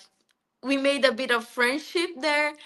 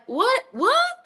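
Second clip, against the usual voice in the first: baffled what; 12 semitones higher, 4 dB louder than usual. Retold or imitated. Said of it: "And I was like".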